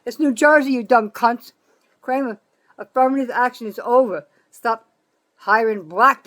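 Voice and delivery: shouted high and loud at the state's Democrats; angry outburst. Real, not acted. Ranting woman shouts furious insult at New Jersey Democrats.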